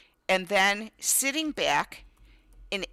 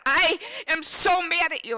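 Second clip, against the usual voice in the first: put-on much higher, pouting kid; mock angry child; 9 semitones higher, 3 dB louder than usual. Son telling mom he's mad, high and pouty.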